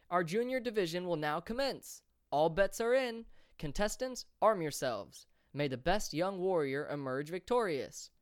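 high, loud opening call; rally the crowd for the next event; arena announcer. A narrator's reading. Announcer opening the junior brawl to the stands, loud and high.

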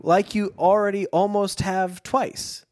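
a hint of an incredulous Hardy; mock Hardy retort. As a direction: scoff at the villain's logic. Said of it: "the question Mister Hardy should have asked".

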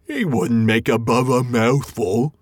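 slow, dismissive troll voice; a full troll unimpressed by the snack; troll William. Acted. William after a fine supper, slow dismissive troll voice. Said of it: "said William".

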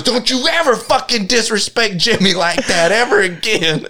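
lightly voiced drunk threat; mock tough-guy threat. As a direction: threaten like Billy defending Jimi. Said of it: "He goes".

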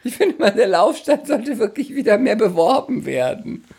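speaking through giggles; can barely keep a straight face while joking; laughing. Real, not acted.

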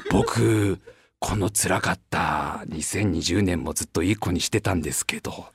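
very low, soft and slow; a kid pleading sadly; sad child. Retold or imitated. Child guilt-tripping Santa. (悲しげな子供の声)

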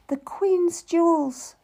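slow, toneless statement; said flatly. A narrator's reading. Lady names the dead queen's jewels, slow and toneless. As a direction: state it without feeling. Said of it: "she said flatly".

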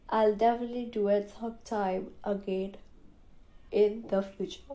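talking through a yawn; words stretched by a yawn. Real, not acted. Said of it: "I just yawned".

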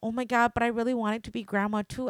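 mock on the edge of tears, rushing it out; retold tearful plea. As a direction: pitch it up like someone starting to cry. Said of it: "starting to cry".

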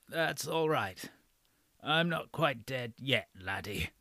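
put-on wheezy, slow, frail old man voice; a dying old man wheezing out his words; frail breathless old man. A narrator's reading. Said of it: "wheezed the old man in the bed".

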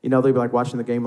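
ordinary talk, nothing marked

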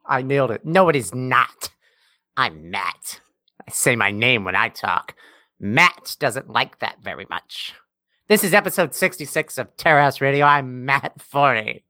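low, measured mocking imitation; Matt Forney. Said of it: "That's what you sound like".

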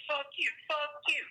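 mock quarrel. Acting out friends disagreeing, playful mock cursing. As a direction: toss the curse back and forth lightly. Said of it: "and be like".

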